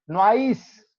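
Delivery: नॉइस as people commonly say it; common mispronunciation. Shown as a demonstration. Teacher showing how people say it, नॉइस mispronounced. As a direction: demonstrate the common way of saying नॉइस. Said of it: "ऐसे बोलते हैं".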